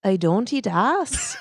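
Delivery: slow, shaky attempt at a Scottish brogue. Shown as a demonstration. Co-host trying accents on a test phrase, Scottish brogue. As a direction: try a Scottish accent, drawn out slowly. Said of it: "a Scottish brogue".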